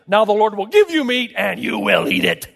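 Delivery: God laying down a sentence; emphatic pronouncement, slowing on the last words; stern and emphatic. Acted. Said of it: "it's stern, it's emphatic kind".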